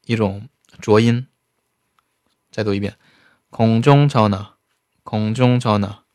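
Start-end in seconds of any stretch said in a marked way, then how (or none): 3.5-6.0 抄那 said with a slight breathy h and a voiced, half-linked sound; 空中抄那 read slowly with a faint h in 抄那; slow teaching read. Shown as a demonstration. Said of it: "稍微带点呵这种感觉啊".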